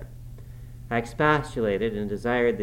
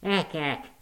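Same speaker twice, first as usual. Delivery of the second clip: exclamation; 7 semitones higher than usual. A narrator's reading. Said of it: "exclaimed Joseph".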